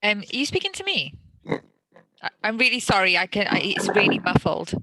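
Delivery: distorted, muffled mic sound; speaking through a bad muffled mic; muffled microphone. Real, not acted. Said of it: "you're sounding a little distorted".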